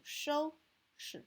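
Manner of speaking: 收 high and strong, 拾 very light; toneless, unstressed 拾 after a high 收; light second syllable. Shown as a demonstration. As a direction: hold 收 high, let 拾 drop short. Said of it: "read it very slightly".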